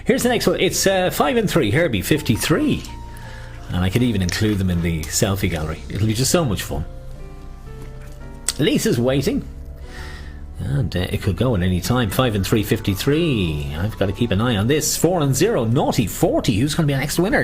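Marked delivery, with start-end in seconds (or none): 0.1-2.8 sing-song bingo call; bingo caller. Acted. Calling bingo numbers. 14.9-17.4 sing-song bingo call; bingo caller. Acted. Calling bingo numbers.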